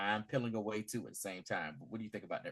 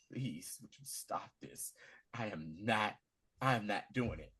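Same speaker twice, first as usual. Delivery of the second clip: lower, softer acted-out begging; retold weary refusal; subdued plea; 4 semitones lower, 6 dB quieter than usual. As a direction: plead quietly, as if worn down. Acting out plea to doctor.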